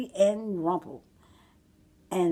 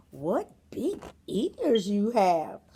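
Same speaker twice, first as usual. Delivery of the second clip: put-on slow, wondering child; wondering girl; slower than usual. Red Riding Hood eyes the ears, slow and wondering. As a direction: say it slowly in wonder.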